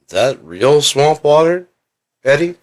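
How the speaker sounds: hammed-up high-pitched wonder; put-on curious visitor. Acts out golf course visit.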